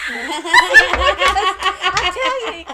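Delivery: loud, high laughing words, very slow; cracking up mid-phrase. Real, not acted. Losing her train of thought, laughing loudly.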